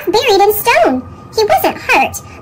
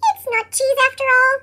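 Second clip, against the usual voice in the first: sniffly; 7 semitones higher, 3 dB quieter than usual. Acted. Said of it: "sniffed Pip".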